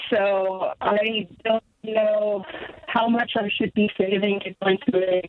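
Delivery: breaking up on a bad phone line; choppy cell connection cutting out; clipped phone line. Real, not acted. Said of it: "you're breaking up on us".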